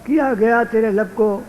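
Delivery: measured, projected verse building to the reply; Urdu couplet recitation. Acted. Poet answering Mir's couplet before an audience, declaimed recitation. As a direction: declaim it phrase by phrase.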